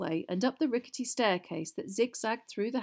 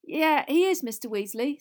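higher, louder, earnest backing; 7 semitones higher, 7 dB louder than usual. A narrator's reading. Harry backs the twins to their father, earnest. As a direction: back your friends up sincerely. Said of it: "said Harry earnestly".

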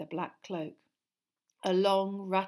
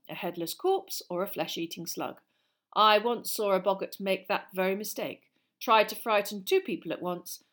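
lively, louder classroom lecture; lightly voiced teacher; 5 dB louder than usual. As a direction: project like an encouraging teacher.

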